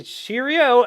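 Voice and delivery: high, loud rabbit sidekick catchphrase; cheery rabbit companion. Acted. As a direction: call it out as a chirpy rabbit. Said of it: "and he says".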